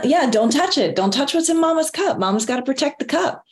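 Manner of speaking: mock-scold the kid over mama's cup; playful mama warning. Mama warning her son playfully.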